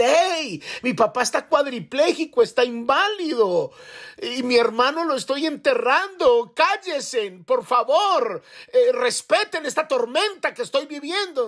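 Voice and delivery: high, pleading cry for respect; imagined outburst. Retold or imitated. Grieving son imagining telling laughing friends off, high pleading cry. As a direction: pitch way up, begging them to hush. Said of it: "me provoca como decir".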